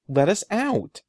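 high, loud, shrill demand; a boy shrieking to be let out. A narrator's reading. Brother demanding release, shrill loud cry. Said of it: "Eddie demanded shrilly".

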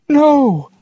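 high, loud no; calling out. Acted. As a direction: shout it across to the boat. Calling down to father's boat.

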